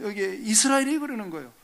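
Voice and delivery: normal talking voice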